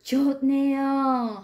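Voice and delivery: teacher demoing an exclamatory 좋네요; exclamation. Shown as a demonstration. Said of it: "Cảm thán".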